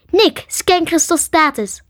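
high, slow urgent call. A narrator's reading. Karen to Nick after Crystal is bitten, calling urgently. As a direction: call the order across, stretched out. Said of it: "riep Karen".

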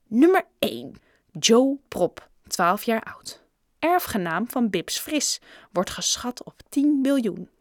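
emphatic announcement from a magazine; reading aloud. A narrator's reading. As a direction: read out the list entry with weight. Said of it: "las Raj hardop". (nadrukkelijk hardop voorgelezen)

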